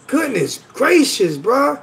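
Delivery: slow, drawn-out dismay; exasperated and drawn out; real exasperation. Real, not acted. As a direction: stretch it out in disbelief at a rude comment. Dismayed at a viewer's insult.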